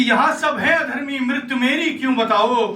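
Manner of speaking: indignant verse recitation, understated anger; mildly angry. Acted. Dying Karna demands answers from Krishna, mildly angry verse. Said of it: "तो गुस्सा देखिए कर्ण का".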